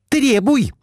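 high, urging wife; Глафира, high. A narrator's reading. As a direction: push him to demand. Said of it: "отвечала Глафира Семёновна". (высокий настойчивый призыв)

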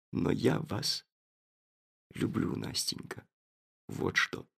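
barely voiced, soft declaration of love; whispered confession. The narrator whispers his love to Nastenka. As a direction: whisper it as a secret.

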